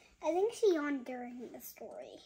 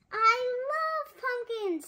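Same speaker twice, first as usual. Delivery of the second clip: higher, louder, slow and gleeful; delighted Spooky; 8 semitones higher, 8 dB louder, slower than usual. Acted. Mother reads Spooky's line to her baby, gushing. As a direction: gush over the pumpkins.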